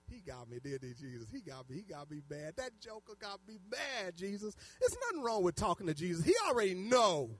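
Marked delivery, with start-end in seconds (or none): 0.1-4.6 hushed owning up, as retold; private confession. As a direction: drop the voice, rueful admission in prayer. Retold private laughing confession to Jesus.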